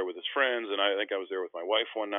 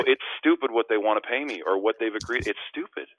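amazed disbelief; 3 semitones higher, 4 dB louder than usual. Retold or imitated. To brother, explaining the huge contract offer, amazed. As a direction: stress it as wonderfully absurd. Clarifies the offer is absurdly good.

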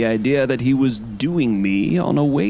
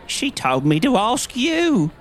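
high whining plea; nasal whine; 11 semitones higher than usual. A narrator's reading. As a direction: whine back like a cringing man. Little man pleads back.

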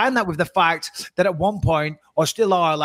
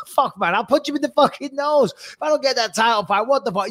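higher, joking tough-guy threat; laughing mock threat; 6 semitones higher than usual. Fighter joking about the video threat, laughing mock threat. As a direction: throw out the threat as a laughing joke. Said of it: "he's laughing as he says it".

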